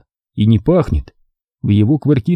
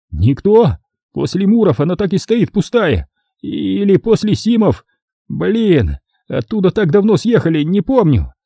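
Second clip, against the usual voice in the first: high, excitable caretaker rant; caretaker grumbling; 8 semitones higher than usual. A narrator's reading. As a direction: rattle off excuses, getting bolder. Caretaker ranting, emboldened. (смотритель высоким голосом оправдывается)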